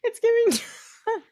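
high, drawn-out presidential impression; slow, exaggerated politician parody; Donald Trump. Riffing with co-host on a catchphrase, hammed-up Trump impression. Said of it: "the secret to a Donald Trump impression".

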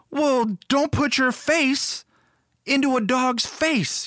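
a hint of a stern father, drawn out; dad voice. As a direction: lecture the kid slowly like his dad. Dad scolding the child.

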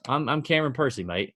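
a touch of Australian twang, tongue in cheek; mock Australian accent. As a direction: lightly imitate an Aussie golfer bragging. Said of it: "He's Australian".

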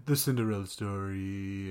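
a hint of a famous comic cadence; mimicked movie voice. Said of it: "one of the most mimicked voices".

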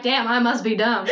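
self-mocking line through laughter; laughing. Admitting to her podcast cohost she missed the twist, laughing. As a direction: laugh at your own slowness. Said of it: "And I'm like".

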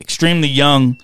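low, subdued condolence; somber, halting tribute; real grief, understated. Real, not acted. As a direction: speak softly and low about a loss. Condolences for a dead teammate.

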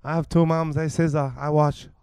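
clumsy deaf-character impression, slipping accent; put-on deaf voice. Improviser telling a date about the two mums, mock deaf voice. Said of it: "can I talk deaf".

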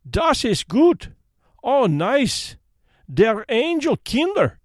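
put-on high-pitched German children exclaiming happily; delighted children's cries. A narrator's reading. Poor children thanking the girls as they eat, delighted cries. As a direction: cry out high and pleased, in a German accent. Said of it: "cried the poor things as they ate and smiled".

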